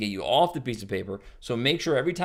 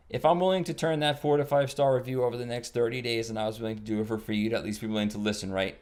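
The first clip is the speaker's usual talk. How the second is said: flat bored pitch; 2 semitones lower than usual. Shown as a demonstration. Caller reading the script flat to an owner. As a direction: read it like a tired cable guy. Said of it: "if I say it like this".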